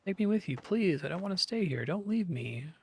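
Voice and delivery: mild tearful plea to family; tearful pleading. Acted. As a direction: plead not to be left behind. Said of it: "Her cries mingle with tears".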